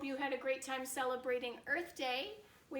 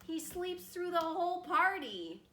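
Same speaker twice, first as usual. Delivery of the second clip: rhyming story narration; slower than usual. A narrator's reading. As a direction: lift the rhyme toward the bear's lair.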